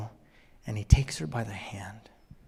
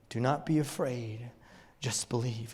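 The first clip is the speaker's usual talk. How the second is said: quiet inner reassurance; 2 semitones lower, 6 dB quieter than usual. Acted. Remembered words ringing in the head.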